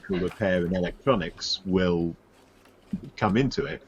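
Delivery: underwater. Real, not acted. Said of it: "you sound like you're underwater".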